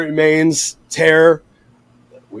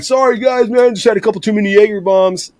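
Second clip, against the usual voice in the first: higher-pitched retold excuse; mock sheepish apology; 6 semitones higher than usual. Singer to his pissed band after falling, sheepish high-pitched apology. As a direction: plead lightly in a raised voice.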